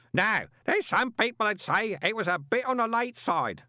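loud, high roar. A narrator's reading. Parker roaring at Moist over his letter, loud. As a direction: roar it, no sense of volume. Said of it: "the man roared".

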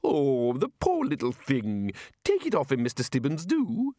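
drawn-out, pitying coo; pitying plea. Acted. Wizard pleading with Stibbons to help the little librarian, pitying coo. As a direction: plead on the poor thing's behalf.

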